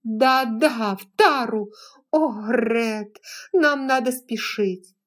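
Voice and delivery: pleading to rush off; eager. A narrator's reading. Scarlett urges haste.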